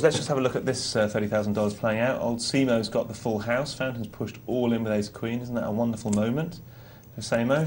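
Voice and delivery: upbeat play-by-play of the hand; poker commentary. Acted. Poker host replaying a hand for listeners, lively commentary. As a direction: call the hand like a live commentator.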